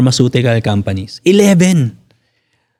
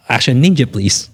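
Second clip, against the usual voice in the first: laughing; 11 semitones higher than usual. Real, not acted.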